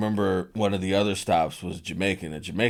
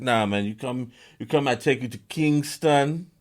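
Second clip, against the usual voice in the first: put-on Jamaican accent; 5 semitones higher, 3 dB louder than usual. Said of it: "he's doing it with a Jamaican accent".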